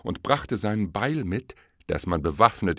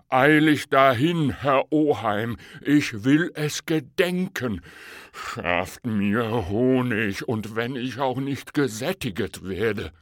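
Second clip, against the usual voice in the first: eager bear; 5 semitones higher, 5 dB louder than usual. Acted. The bear begs the fox for honey, higher eager pleading. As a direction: beg like a greedy bear who can't wait.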